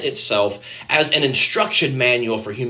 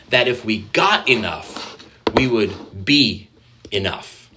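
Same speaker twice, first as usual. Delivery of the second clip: slow reading; slower than usual. Shown as a demonstration. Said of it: "David Zahl says this".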